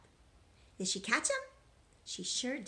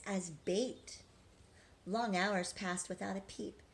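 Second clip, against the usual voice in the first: rhythmic storybook read-aloud; reading to children. A narrator's reading. Teacher reading a rhyming picture book to children, sing-song. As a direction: read the rhymes to the class, lilting.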